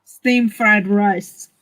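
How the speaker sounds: slow attempt at an English accent. Shown as a demonstration. Streamer trying to copy her friend, English accent. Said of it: "Can you do it in an English accent".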